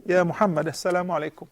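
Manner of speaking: talking with a sore throat. Real, not acted. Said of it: "You hear my sore throat voice?".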